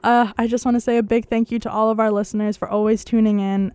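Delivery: hoarse, croaky sign-off. Real, not acted. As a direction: talk through a croaky throat. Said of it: "as you can tell by my croaky voice".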